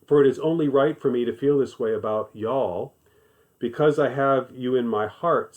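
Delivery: put-on lightly implied Southern accent; a hint of a Southern US accent. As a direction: read the verse with a touch of Southern y'all. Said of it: "read this with the implied Southern accent".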